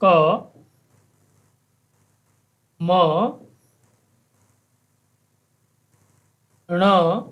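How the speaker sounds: क, म, ण each spoken with a full a; full letter sounds. Shown as a demonstration. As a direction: spell out क, म, ण slowly, letter by letter. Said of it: "वर्णमाला के अक्षरों को पृथकतया".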